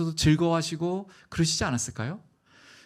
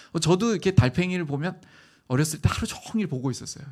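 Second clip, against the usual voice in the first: ordinary talk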